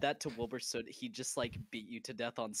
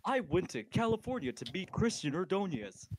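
lightly imitated AI narrator, pitched up; bad AI voiceover; 6 semitones higher than usual. Mocking a really bad AI voiceover for the group, hint of synthetic narrator. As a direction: read it like a cheesy AI voiceover. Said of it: "one of those really bad A I".

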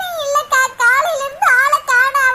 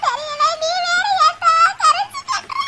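crying; 4 semitones higher than usual. Acted. Mother wails over missing daughter.

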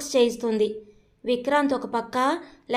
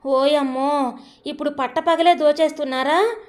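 mild mock yell; 2 semitones higher than usual. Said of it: "అంటూ గట్టి గట్టిగా అరుస్తుంటే".

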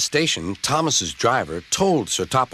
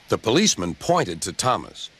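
plain reading voice

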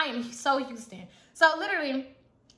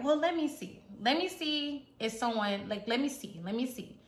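calm inspection; 2 semitones lower, 6 dB quieter than usual. Retold or imitated. Friend calmly inspects the head.

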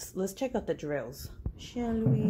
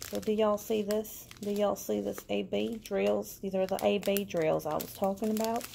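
a light Southern US accent, a touch higher; slipping into Southern; 3 semitones higher than usual. Real, not acted. Showing viewers the AB drills, in a light Southern US accent. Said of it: "my voice went southern".

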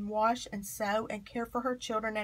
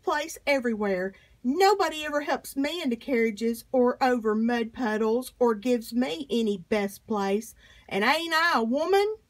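Sojourner Truth speaking out; 2 semitones higher, 3 dB louder than usual. Retold or imitated. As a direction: address the hall with growing conviction. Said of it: "She caused quite a stir when she reminded white women".

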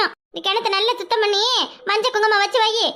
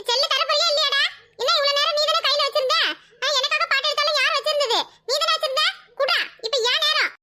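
higher-pitched, insistent demands; indignant squabbling; 5 semitones higher than usual. Acted. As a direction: argue like a child cheated of a turn. Children quarrel over the phone. (கோபமாக உயர்ந்த குரலில் சண்டை)

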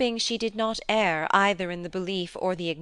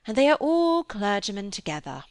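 louder, animated character voice; lively lady in conversation; 8 dB louder than usual. Acted. Lady talking of the clergymen and their brother, animated and emphatic. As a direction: press the point with energy.

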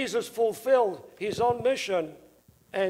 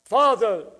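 Father called out louder, mock near-scream; loud cry; 5 dB louder than usual. Jesus crying out to the Father from the cross, loud cry. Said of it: "the loud voice that the Lord s-, almost screamed".

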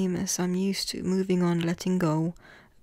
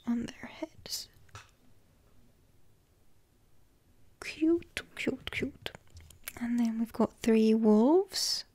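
ASMR whisper. Acted. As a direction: whisper each card gently. Whispered tarot card reading.

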